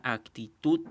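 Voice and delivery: actitud spaced out, landing firmly on tud; stress on final syllable. Shown as a demonstration. Teacher giving an unaccented example, stress on the end of actitud. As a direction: say actitud carefully, leaning on the last syllable tud. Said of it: "dónde está la mayor fuerza de voz".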